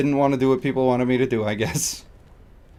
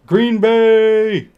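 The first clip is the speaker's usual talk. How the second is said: sudden yelled team name; sports fan shout; 7 semitones higher, 5 dB louder than usual. Acted. Random outburst mid-ramble, shouted sports cheer. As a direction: blurt it out like a rabid fan.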